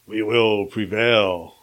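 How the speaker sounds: slow, lightly voiced presidential declaration; mild politician impression, slowly stretched; George Bush. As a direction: drag the words out like a politician on TV. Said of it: "George Bush on the T V going".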